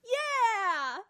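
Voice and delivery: high, loud, stretched-out cheer; yelled agreement. Retold or imitated. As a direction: holler back in full agreement. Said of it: "one of the ladies on the bike goes".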